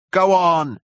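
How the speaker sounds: high, loud shove-along call; crowd shout. A narrator's reading. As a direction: shout impatiently from a pushing crowd.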